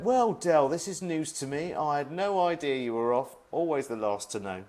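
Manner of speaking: high, loud impression of Darren's accent. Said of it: "That's roughly his accent as well".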